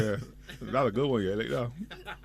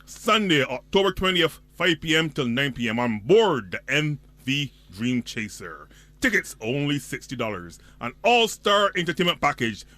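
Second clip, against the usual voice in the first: excited announcer hyping a boat party; event promo read; much slower than usual. Acted. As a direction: pump it up like a radio promo. Reads an event ad.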